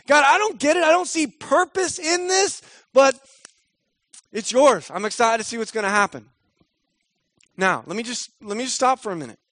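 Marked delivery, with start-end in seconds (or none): 0.0-6.3 higher, earnest trusting prayer. Retold or imitated. Voicing the right prayer to God, higher earnest prayer. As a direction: pray it up, hopeful. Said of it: "should be".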